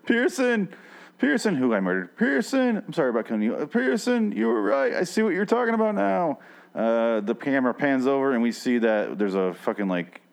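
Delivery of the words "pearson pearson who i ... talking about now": high, yelled calls of Pearson; hammed-up high anguished calls to Pearson; mock anguished yelling. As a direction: cry out to the dead friend, hammed-up. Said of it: "Corey starts to go".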